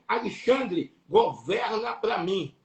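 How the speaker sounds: a grave royal charge spoken slowly; voice of the lion. Retold or imitated. Lion in the vision crowns the preacher, slow solemn command. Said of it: "E falou assim".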